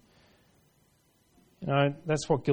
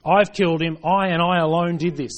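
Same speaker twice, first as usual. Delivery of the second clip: raised, emphatic mock confession; 3 semitones higher, 5 dB louder than usual. Preacher voicing guilty Herod to the congregation, emphatic confession. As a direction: voice an acted confession, building louder to the end. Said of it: "This is a confession".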